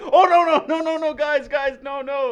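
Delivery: high, loud mock panic; mimicking fans begging them to stop, high and frantic; panicked crowd. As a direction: squeal like horrified fans below. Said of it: "the people are like".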